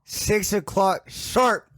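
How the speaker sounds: high, very slow call; slow high announcement. Pretend. Alarm voice continues.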